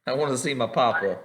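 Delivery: pleading, exaggerated homesick whine; mock whiny mimicry. Game master mocks a player's homesick character, mock whiny. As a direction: mimic a homesick kid, pitched a little up. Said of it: "It's like".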